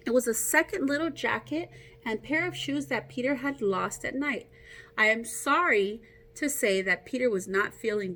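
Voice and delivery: put-on reading a picture book aloud to kids; story narration. A narrator's reading. Teacher reading Peter Rabbit aloud to her class, storytelling. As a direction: tell the tale to a class, a little brighter.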